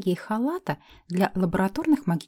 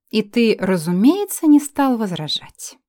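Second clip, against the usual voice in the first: cold; 3 semitones higher, 6 dB louder, slower than usual. Acted. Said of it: "Холодно поинтересовалась я".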